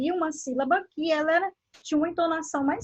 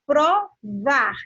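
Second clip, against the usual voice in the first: Provar in separate syllables, VAR louder; stress on last syllable; 6 dB louder than usual. Shown as a demonstration. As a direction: punch out the final var of Provar. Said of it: "ela é dita com uma entonação mais forte".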